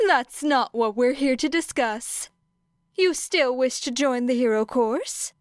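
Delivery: cheery high principal changing topic; grinning principal. A narrator's reading. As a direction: pitch up and grin through it. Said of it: "with a wide grin".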